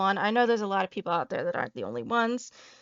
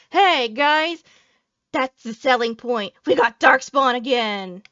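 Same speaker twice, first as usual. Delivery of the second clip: sarcastic hype; 7 dB louder than usual. Acted. Sarcastic announcer pitch.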